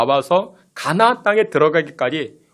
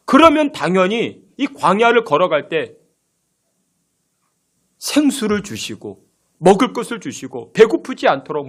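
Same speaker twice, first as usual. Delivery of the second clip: ordinary talk, nothing marked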